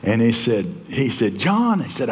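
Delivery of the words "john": put-on New York accent. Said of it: "had that New York accent".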